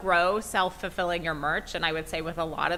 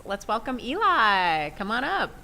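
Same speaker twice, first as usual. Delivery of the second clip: rousing welcome; 4 semitones higher than usual. Real, not acted. Host bringing the guest on stage, rousing welcome. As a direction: call the guest up with lifted, stretched words.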